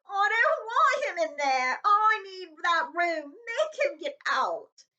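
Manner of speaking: high, loud, slow tantrum crying; a spoiled boy wailing at his mother; bawling. Acted. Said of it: "Dudley bawling at his mother".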